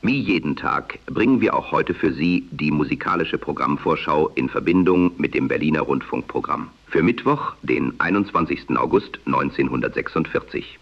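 am radio. Acted. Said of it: "durch künstlichen Intelligenz kreierten Stimme, die dem damaligen Sprechstil nahekommt".

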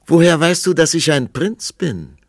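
high and loud, amazed question; surprised prince. A narrator's reading. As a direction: blurt it out in astonishment. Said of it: "fragte er".

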